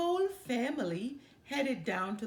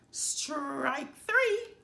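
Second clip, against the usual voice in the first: louder, higher umpire call; 7 semitones higher, 6 dB louder than usual. A narrator's reading. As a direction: ring it out to the whole field. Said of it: "called the ump".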